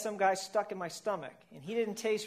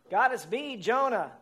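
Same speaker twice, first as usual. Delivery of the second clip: louder, higher desperate call; calling out to God; 4 semitones higher, 6 dB louder than usual. A narrator's reading. Jonah trapped in the whale calls God, desperate. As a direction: cry up from the belly.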